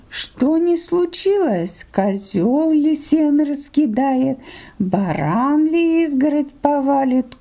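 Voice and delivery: a meek sheep airing her grievances. Acted. Sheep complains to the fox.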